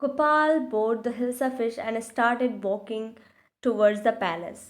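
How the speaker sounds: put-on very slow, careful English read-aloud for children; slow storybook reading. A narrator's reading. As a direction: read each word out slowly like a class reader.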